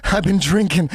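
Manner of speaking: gasp, then mock-crying confession; retold tearful confession. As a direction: blurt it with a hammed-up teary catch. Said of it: "I started crying".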